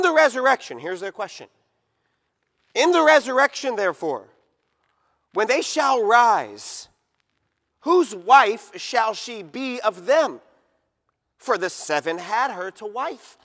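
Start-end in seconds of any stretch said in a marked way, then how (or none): 2.7-13.4 put-on slow, solemn reading of old scripture. Preacher reading the Sadducees' question to the church, solemn and measured. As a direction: read the verse out to the congregation with weight.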